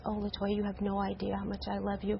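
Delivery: low, soft quoted affection; tender retold affection. Sister retelling brother's words of love, low and tender. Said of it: "And he says".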